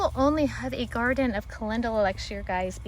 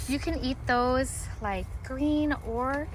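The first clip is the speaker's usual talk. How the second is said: breathless and winded; speaking short of breath; 3 dB quieter, slower than usual. Real, not acted. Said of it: "oh, I'm out of breath".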